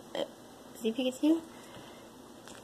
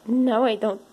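voicing the dog, pleading and louder; dog's mock protest; 5 dB louder than usual. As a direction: play the dog begging the cat to stay away.

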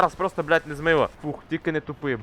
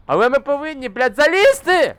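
straining shout; 10 semitones higher, 7 dB louder than usual. Real, not acted. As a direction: push every word out with effort. Straining to finish the climb.

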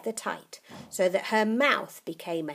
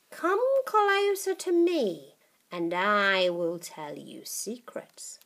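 put-on coaxing old witch; 3 semitones higher, 4 dB louder, slower than usual. Grandma beckoning.

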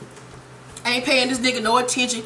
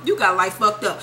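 lower, matter-of-fact put-down; dismissive verdict; 4 semitones lower than usual. Retold or imitated. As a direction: close the wife's rant low and firm. Wife's line repeated, settling lower.

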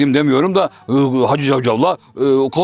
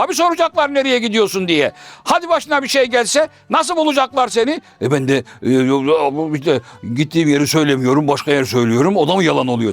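higher, insistent Hacivat listing; emphatic Hacivat; 5 semitones higher than usual. Acted. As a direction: drive each item home to Karagöz. Hacivat admonishing.

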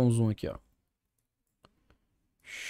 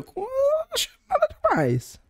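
laughing. Real, not acted. Laughing while reacting to food.

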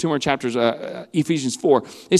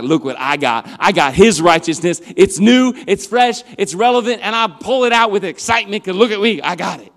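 excited bragging; 3 semitones higher, 6 dB louder than usual. Pretend. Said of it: "It's always like".

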